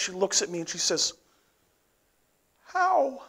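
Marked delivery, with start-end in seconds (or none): 2.6-3.2 high, breathless stunned question; a dumbfounded high how. Retold or imitated. Boss stunned by the finished reports, gasping. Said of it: "one single word escapes her lips".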